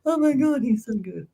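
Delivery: high, excited raving that eases off; excited, high-pitched gush of praise; gushing admiration. Real, not acted. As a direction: rave in delighted amazement, starting high and loud. Gushing over the man's impressions.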